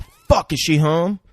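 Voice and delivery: sudden high alarmed oh fuck; startled dad realizing she's not home; panicked wake-up. Retold or imitated. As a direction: jolt awake in a panic.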